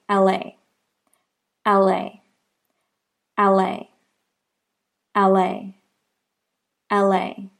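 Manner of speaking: "L A" run together as one word, ɛleɪ; linked demo. Shown as a demonstration. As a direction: blend "L A" smoothly, no break. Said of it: "that sounds like".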